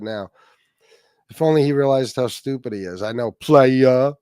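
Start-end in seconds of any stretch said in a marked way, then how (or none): 3.0-4.1 mocking slang. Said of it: "Who the fuck says that?".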